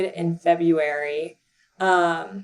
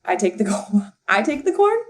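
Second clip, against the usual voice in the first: incredulous question; faster than usual. Retold or imitated. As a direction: ask it like you can't believe it. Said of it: "And I was like".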